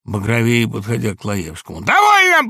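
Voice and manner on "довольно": high, loud shout, gasping; breathless shout. A narrator's reading. Laevsky grabbing his cap, shouting high and breathless. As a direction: hurl it out, out of breath. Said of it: "задыхаясь".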